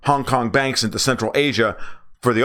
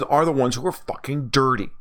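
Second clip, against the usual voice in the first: ordinary talk, nothing marked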